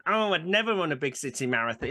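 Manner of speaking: lightly mocked Yorkshire grumble; northern English accent. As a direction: moan it with a hint of northern accent. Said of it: "I do a northern accent".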